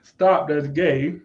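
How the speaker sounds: slow, drawn-out quote; stretched-out mock reprimand. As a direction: read it out slowly, word by word. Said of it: "and say in my voice".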